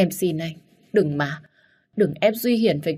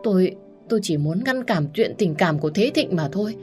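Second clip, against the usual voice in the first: wailing confession; 3 semitones higher than usual. Acted. Wife confesses to her husband while wailing. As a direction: stammer through tears. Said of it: "vừa gào khóc".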